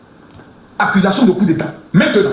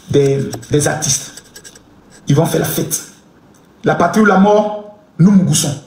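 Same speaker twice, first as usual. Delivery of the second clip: mock official report; 4 semitones lower than usual. Mock message to the president.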